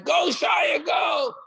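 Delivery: high excited cheer; cheering shout. Retold or imitated. Everyone cheering Shaya's run, high shouted cheer. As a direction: yell him on toward first base.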